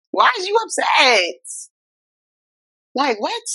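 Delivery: pleading with him, then a near shout of disbelief; wife asking her husband why he is upset; incredulous plea to husband. Retold or imitated. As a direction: pitch rising into a shout on the last question.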